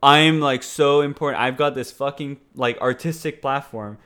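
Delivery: loud, puffed-up mock self-importance; mock self-righteous. Host mocking a self-righteous actor's call to action, self-important. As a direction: mockingly play the super self-righteous star. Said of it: "super self-righteous to be like".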